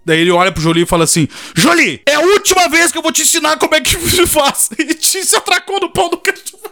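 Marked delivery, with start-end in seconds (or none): 1.5-6.6 high singsong, laughing. Retold or imitated. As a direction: sing it out while laughing. Singsong teasing line with laughter.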